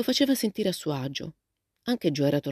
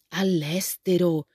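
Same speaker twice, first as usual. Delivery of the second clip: exclaiming; slower than usual. Acted. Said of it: "esclamò Joe".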